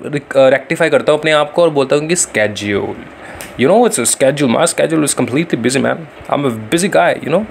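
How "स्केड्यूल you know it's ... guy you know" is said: slow, drawn-out show-off English. Acted. Teacher demonstrating how he shows off his busy schedule, slow affected English. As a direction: play up the American "SKEJ-ool" to impress. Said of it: "ऐसे करके मैं मतलब थोड़ा दिखाता हूँ".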